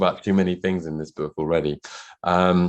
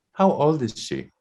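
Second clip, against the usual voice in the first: higher, slow, lightly put-on voice of the shop assistant; sales assistant; 7 semitones higher, slower than usual. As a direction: play the saleswoman asking, a bit higher. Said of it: "a slight German accent".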